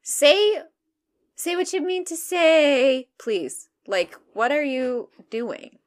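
high, slow, loud exasperation; exasperated. Pretend. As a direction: plead with mock outrage. Exasperated rant at the caller.

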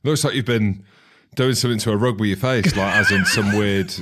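holding back laughter; reading through suppressed giggles; stifled giggles. Real, not acted. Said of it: "I'm trying not to laugh".

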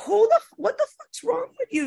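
high squeal of laughing disbelief; laughing mock rant. Retelling her rant at the rude passenger, laughing high and incredulous. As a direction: rant at him while cracking up.

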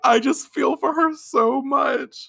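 high, slow, voice wobbling with real tears; fighting back tears; genuinely choked up; teary. Real, not acted. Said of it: "Why am I emotional".

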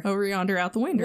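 quick mimicked Southern accent, "winder". Repeating mom's phrase for friend, quick imitated Southern accent. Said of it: "then she'll come back with".

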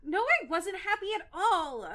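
laughing. Real, not acted. Laughing while reading a line.

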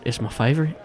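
hint of an Irish barman; lightly Irish, confiding a favorite drink; mild Irish brogue; Irish bartender. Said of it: "this strong-built Irishman".

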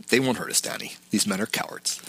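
gentle Walter. Retold or imitated. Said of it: "Walter's tone is gentle".

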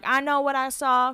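mock Southern accent, accusing; bad Southern accent. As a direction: imitate a Southern boyfriend, badly. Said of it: "that was a bad Southern accent".

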